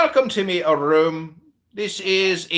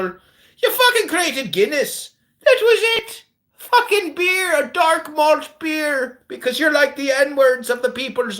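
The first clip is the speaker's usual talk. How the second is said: mocking rant; 8 semitones higher than usual. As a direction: sneer through the laughter.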